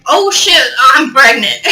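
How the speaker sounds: startled, laughing cry of alarm; mock panicked gasp. Retelling her own panic to viewers, a laughing shocked yelp. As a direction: blurt it out in fake shock, half laughing.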